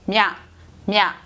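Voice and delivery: 냐 said as "mya", in separate single syllables; pronunciation of 냐. Shown as a demonstration. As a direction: repeat 냐 as m gliding into ya, for learners. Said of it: "소리는 мя라고". (냐를 '먀' 한 음절로 반복해서 발음)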